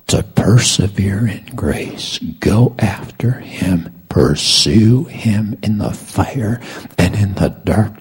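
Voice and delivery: measured, rising exhortation; earnest preaching. Real, not acted. Preacher urges the body of Christ to persevere, earnest preaching. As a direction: urge them on with drawn-out key words.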